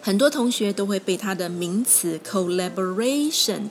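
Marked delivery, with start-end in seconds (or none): 2.3-3.7 collaboration with the stress on "ra"; collaboration, main beat on the third-last letters "ra". Shown as a demonstration. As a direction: lean on the "ra" in collaboration. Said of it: "的重音给影响".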